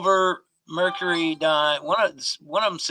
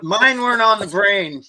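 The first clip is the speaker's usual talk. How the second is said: laughing; 6 semitones higher, 7 dB louder than usual. Real, not acted. Joking about crabs, laughing.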